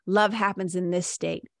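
a loose, open voice, face relaxed. Shown as a demonstration. Showing listeners the open receptive state, relaxed. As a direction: let the words flow out easily, fingers uncurled. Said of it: "relax my face".

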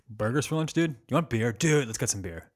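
lazy bro voice with vocal fry; gym bro. Pretend. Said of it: "our best bro voices".

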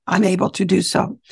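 hoarse, just-woke-up voice; a bit of morning rasp in the throat; raspy morning voice. Real, not acted. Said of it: "my raspy morning voice".

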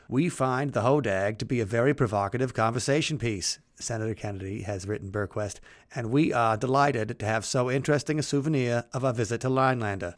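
lightly put-on Massachusetts accent; a weak stab at a Massachusetts accent; Kennedy accent. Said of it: "my very poor Massachusetts Kennedy accent".

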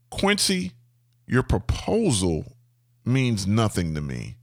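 measured, retold kindly put-down with pauses; kindly but firm, in spaced-out phrases. Owner calming the job site, kindly telling the contractor. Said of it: "and I kindly say".

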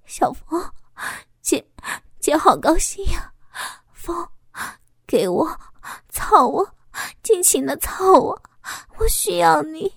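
high, excited eager cries. A narrator's reading. Woman eagerly urges her lover, high and excited. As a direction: pour out the eager longing. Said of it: "我激动地说道".

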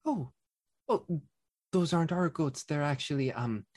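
lightly voiced busy innkeeper; kindly innkeeper. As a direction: innkeeper politely explaining whose goats they are.

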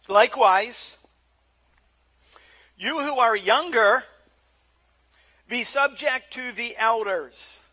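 slow, deliberate Bible reading with long pauses; measured, emphatic pulpit reading; scripture reading. Real, not acted. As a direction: proclaim the text phrase by phrase. Reads the scripture text aloud.

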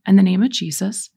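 firm lead line for others to echo; leading a prayer. Shown as a demonstration. Leading listeners in renouncing spirits, firm prayer lead. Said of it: "repeat after me".

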